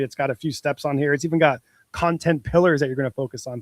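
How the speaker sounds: ordinary delivery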